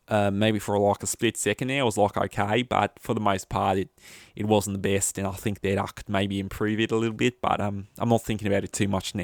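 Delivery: attempted Australian accent. Shown as a demonstration. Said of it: "That's the best I can do".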